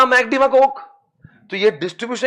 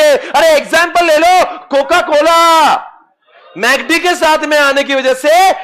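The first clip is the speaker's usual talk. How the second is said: excited emphasis; 5 semitones higher, 5 dB louder than usual. Real, not acted. Teacher emphasizing example.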